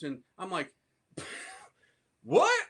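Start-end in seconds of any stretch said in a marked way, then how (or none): 2.2-2.7 incredulous shout. Retold or imitated.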